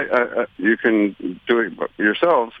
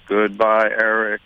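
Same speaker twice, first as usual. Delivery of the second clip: Goodbye, Eric with one flat note per syllable; slower than usual. Shown as a demonstration. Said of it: "you sound like a robot or Martian".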